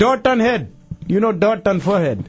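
put-on Indian accent bit. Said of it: "your accent".

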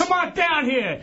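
ranting. Real, not acted. Daring Mad Max to come down, ranting. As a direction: call him down to face you. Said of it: "All that ranting and raving".

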